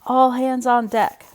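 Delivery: slow pirate bellow, high and loud. Acted. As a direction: roar it out like a pirate captain across the deck. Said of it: "bellowed Earl".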